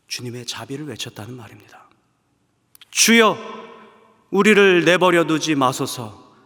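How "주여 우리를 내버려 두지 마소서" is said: loud, slow pleading prayer; earnest prayer cry. Acted. A sinner begging God not to abandon them, loud slow plea. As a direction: plead loudly, drawing it out. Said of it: "이렇게 기도할 수 있는".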